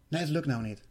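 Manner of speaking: soft, coaxing voice talking you out of it; a soft sneaky inner voice, coaxing and persuasive; sly whispering entity. Retold or imitated. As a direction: lull him into giving up, quietly. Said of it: "Heel slinks".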